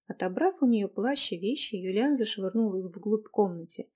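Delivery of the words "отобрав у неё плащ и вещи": ordinary delivery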